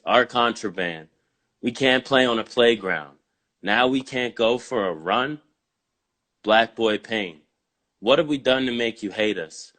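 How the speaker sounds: measured poetry recital with weighted pauses; spoken-word lament in deliberate, separated phrases; spoken-word poem. Acted. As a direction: deliver each line as solemn verse, letting phrase endings fall. Performs own spoken-word poem.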